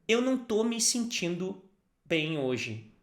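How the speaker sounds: Eu não tô me sentindo bem hoje said clearly; model phrase. Shown as a demonstration. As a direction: model the sentence for repeating.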